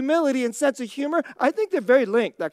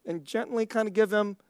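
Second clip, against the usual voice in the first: gentle teasing friend; 5 semitones lower, 3 dB quieter than usual. Retold or imitated. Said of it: "like, gently say".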